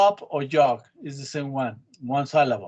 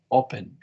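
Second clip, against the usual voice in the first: "Open" stressed on its first vowel; 3 semitones lower than usual. Shown as a demonstration. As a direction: lean on the O of "Open", then fall. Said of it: "el acento está en la O".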